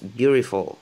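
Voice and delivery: beautiful with the t tapped, almost an R; American flapped t. Shown as a demonstration. Teacher showing how natives say beautiful, t flapped. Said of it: "il y en a qui le prononcent".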